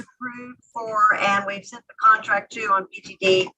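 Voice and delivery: echoey, hollow phone line; like talking from inside a cave. Real, not acted. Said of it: "sound like you're in a cave in Afghanistan".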